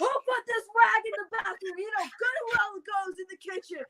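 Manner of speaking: high-pitched mock scolding; imitating mom going off. Daughter imitates mom spotting a misplaced rag, mock scolding. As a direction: go off like an exasperated mother, pitched well up. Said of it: "and she goes off".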